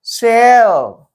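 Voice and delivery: सेव stretched out long and slow; one drawn-out syllable. Shown as a demonstration. Teacher showing students a single syllable, drawn out slowly. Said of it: "one syllable हो गया".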